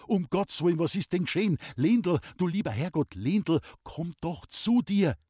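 panicked cry over the wounded friend; frantic pleading. A narrator's reading. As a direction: beg the injured man to wake. Kneels by the bleeding old man.

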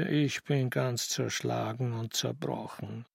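slow, weary moan; groaning. Acted. Nephew lying down to escape his aunt, groaning. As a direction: moan it softly, worn out. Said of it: "legte er sich hin und stöhnte".

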